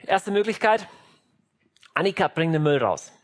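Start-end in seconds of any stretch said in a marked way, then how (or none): 2.0-3.1 calm parental request. Acted. Acted parent, first calm request.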